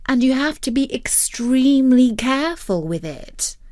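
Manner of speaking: a patient but cross guardian; stern lecture. Acted. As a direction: Future Dog lecturing. Future Dog lecturing.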